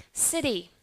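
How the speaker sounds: "City" with a tapped D-like T; American flap T. Shown as a demonstration. Teacher repeats city for the class, American flap T. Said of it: "how about American English".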